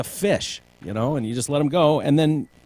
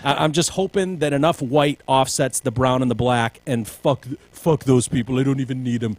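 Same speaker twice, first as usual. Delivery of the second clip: mock Trump. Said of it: "maybe he's just saying".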